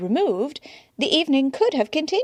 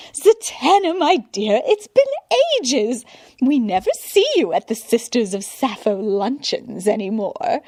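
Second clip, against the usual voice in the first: high, loud delighted gush; gushing greeting; 4 semitones higher, 4 dB louder than usual. A narrator's reading. Gushing woman greeting her old friend Zatanna, high and loud. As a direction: spot an old friend and squeal hello. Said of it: "the gushing woman".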